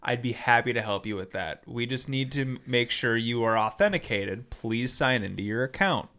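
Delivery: low, soft, even bot script; unruffled customer-service patter; totally calm. Retold or imitated. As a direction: recite like an unbothered support agent. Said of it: "totally calm".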